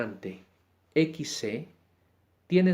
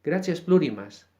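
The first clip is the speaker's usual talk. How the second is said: bright farewell; 4 semitones higher, 7 dB louder than usual. Real, not acted. Closing farewell.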